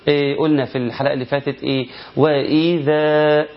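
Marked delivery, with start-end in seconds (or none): 2.2-3.5 وإذا slow with the final long a held; slow recitation holding the alif; held madd. Shown as a demonstration. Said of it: "بحافظ على المد الطبيعي اللي بالالف".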